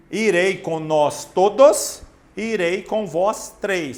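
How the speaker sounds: slow, every word laid out for the class; slow careful example. Shown as a demonstration. Teacher reading a model sentence slowly to students. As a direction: read the example slowly and clearly. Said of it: "Desde que elas estejam definidas".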